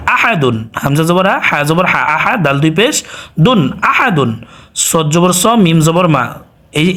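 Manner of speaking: sing-song teacher spelling out syllables, final word lifted; spelling drill. Shown as a demonstration. Spells Arabic syllables for learners. (কোরআন শিক্ষকের বানান পড়ানোর সুর)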